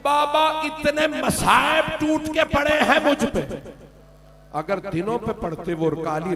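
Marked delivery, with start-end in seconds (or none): 0.0-3.2 mournful keening lament; weeping lament. Acted. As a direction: chant the Arabic as if through tears. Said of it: "बीबी ने रो के कहा".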